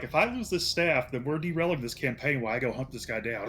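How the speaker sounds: half-shouted, urgent; retold in-game thought. Player recalling losing his staff, urgent shout. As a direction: blurt it out with a shout. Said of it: "I was like".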